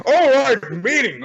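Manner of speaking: eager cartoon sidekick; goofy high voice. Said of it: "He's like".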